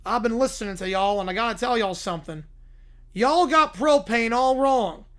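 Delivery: Hank Hill. Retold or imitated. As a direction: lecture them like a stern Texas dad. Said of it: "by Hank Hill".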